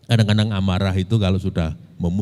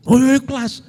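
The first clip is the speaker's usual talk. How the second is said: put-on old mayor's reply; 13 semitones higher than usual. Retired mayor answers proudly.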